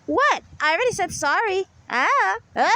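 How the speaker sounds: lightly mock someone arguing with nobody; a touch of mocking, muttered-to-oneself imitation; mock self-talk. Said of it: "mentally ill way they speak".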